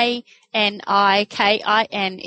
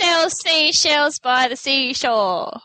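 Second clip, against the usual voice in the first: slow careful tongue twister; 3 semitones higher, much slower than usual. Shown as a demonstration. Tongue twister recited slowly.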